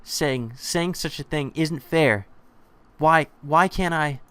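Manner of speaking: put-on high, slow, tearful-child complaint; acted childish wail of protest; spoiled child's protest. A narrator's reading. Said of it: "shouts like a spoiled child".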